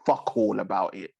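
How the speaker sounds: lightly voiced gloating rich state; mock Qatar voice. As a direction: voice Qatar as a rich, untouchable power. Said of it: "Qatar has all the money in the world to say".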